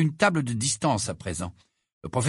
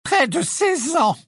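bitter, much higher, slow outburst; deep bitterness; 4 dB louder, slower than usual. A narrator's reading. Trelawney answering the inspector with deep bitterness. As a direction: spit out the years with bitterness. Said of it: "elle déclara avec une profonde amertume".

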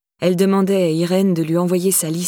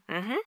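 very soft hummed "mhm"; odd little hum; 13 dB quieter than usual. A narrator's reading. Stepmother closing her excuse on voicemail, odd little hum. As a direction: punctuate with a tiny hum. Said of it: "ponctuer ses phrases d'un fredonnement bizarre".

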